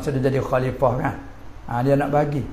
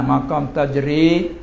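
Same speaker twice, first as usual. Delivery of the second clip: slow, deliberate maqam tajri; teacher naming the Sufi term, slow; slower than usual. Shown as a demonstration. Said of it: "Tak sama dengan tajri".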